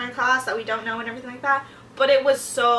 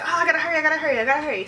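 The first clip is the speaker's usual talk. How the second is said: a touch of mock panic; frantic hurrying; 4 semitones higher, much faster than usual. Student frets over a rushed project, frantic hurrying. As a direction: rattle off a retold fluster. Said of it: "'cause I'm freaking out".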